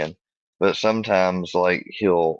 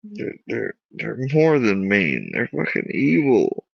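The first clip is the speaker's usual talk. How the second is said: choked up; 6 semitones higher than usual. Real, not acted. Upset, struggling to speak.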